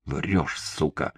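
ordinary delivery

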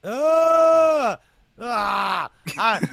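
sharp high cries of sympathetic pain; loud pained yelps, real reaction; wincing cry. Real, not acted. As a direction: yelp as if you felt the injury yourself. Reacting to hearing the injury.

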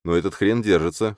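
ordinary delivery, nothing marked

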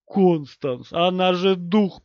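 loud, dragged-out anguished groan. A narrator's reading. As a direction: groan it out in despair. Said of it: "простонал Уолтер". (протяжный стон отчаяния)

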